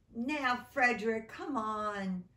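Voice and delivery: a loud nudge to a lazy friend; urging call. Acted. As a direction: call him over, impatient. Mice urging Frederick.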